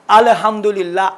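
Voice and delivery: teacher models correct recitation; slow model reading. Shown as a demonstration. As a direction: recite الحمدللہ slowly with a smooth ال. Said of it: "ال نہیں ہے".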